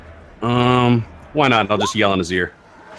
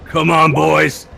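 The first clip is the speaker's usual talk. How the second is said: slow, drawn-out rallying cry; rally the team, higher and stretched out; rallying call; 5 semitones higher, 3 dB louder, much slower than usual. Acted. Player rallies the party for the pin, rousing call.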